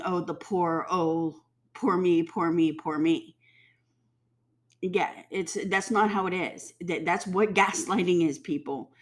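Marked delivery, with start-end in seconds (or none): 0.0-3.4 mock self-pity. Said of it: "and then being".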